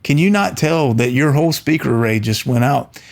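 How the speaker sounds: can't believe they don't hear it; incredulous retort. Retold or imitated. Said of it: "we're saying".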